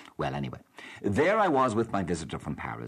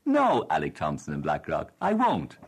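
defiant refusal; 2 semitones lower, 4 dB louder than usual. Real, not acted. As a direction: slam the door on his demand. Host defiantly answers a critical caller.

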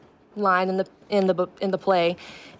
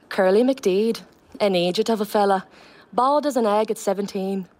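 lightly lilting Donegal accent. Shown as a demonstration. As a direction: deliver the play line with a learned Donegal lilt. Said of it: "say it back to us in the Donegal accent".

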